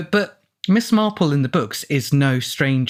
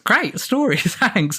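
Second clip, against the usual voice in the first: sarcastic; 9 semitones higher, slower than usual. Real, not acted. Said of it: "sarcastic comment on the letter".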